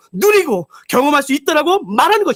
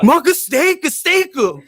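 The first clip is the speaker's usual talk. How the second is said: savoring laugh; 5 semitones higher than usual. Retold or imitated. Savoring buffet food, laughing.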